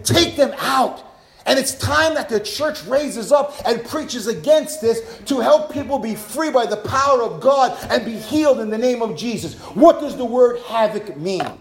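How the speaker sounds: forceful pulpit exhortation; rally the church with driving phrases; rousing preaching. Real, not acted. Preacher urging the church to rise up, rousing preaching.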